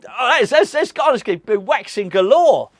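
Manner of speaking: giggly excitement. Real, not acted. Giggly aside about waxing.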